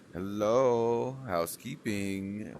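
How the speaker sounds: loud, slow, lightly voiced housekeeper call; playful hotel housekeeping call; mock housekeeper. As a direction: announce yourself at the door, playfully. Mock greeting entering room.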